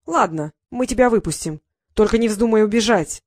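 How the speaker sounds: threatening warning. Acted. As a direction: warn her with menace. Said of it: "угрожающе предупредил он".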